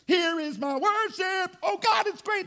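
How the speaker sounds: high, drawn-out exultant praise. Acted. Churchgoer praising at Sunday service, high and exultant. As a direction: belt it out to God, stretching the words.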